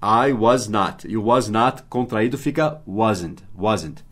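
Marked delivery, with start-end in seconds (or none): 0.0-1.1 very slowly, each word clear; slow demo. Shown as a demonstration. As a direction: dictate it slowly to the class. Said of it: "é só você repetir o verbo to be com was not". (bem devagar, palavra por palavra)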